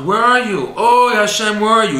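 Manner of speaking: high, loud plea calling up to God; desperate loud cry to Hashem. Acted. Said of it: "and cries out".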